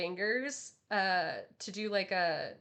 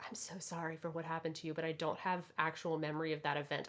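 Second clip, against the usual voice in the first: lower, soft and quick; mean every word, quietly; sincere apology; 4 semitones lower, 4 dB quieter, faster than usual. Retold or imitated. Vash apologising to the woman seeking revenge, low and soft. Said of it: "And he's like".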